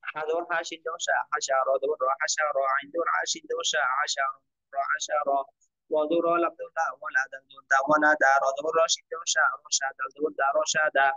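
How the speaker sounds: measured syllable-by-syllable Arabic spelling chant; spelling drill recitation. Shown as a demonstration. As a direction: spell each letter and vowel, then join them evenly. Teacher models Arabic spelling drill.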